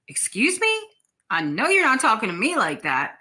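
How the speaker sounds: high, indignant "Excuse me?" then firm. Retold or imitated. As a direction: act offended at being spoken to that way. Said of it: "And I'm like".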